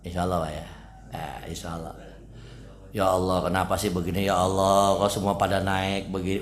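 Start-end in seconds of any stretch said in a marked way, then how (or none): 3.0-6.4 understated, droning mock grumble; mock complaining. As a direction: act out someone grumbling to God, lightly. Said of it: "Jangan ngeluh".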